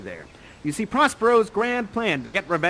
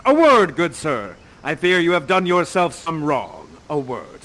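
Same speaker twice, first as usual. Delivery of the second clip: Prospero interrupting; 3 semitones lower, 6 dB louder than usual. Acted. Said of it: "And he says".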